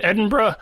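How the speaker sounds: "Edinburgh" as "Edin-bruh"; approved short pronunciation. Shown as a demonstration. Podcaster instructing co-hosts what to say, bruh ending. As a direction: end "Edinburgh" on one reduced "bruh". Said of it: "make sure we say".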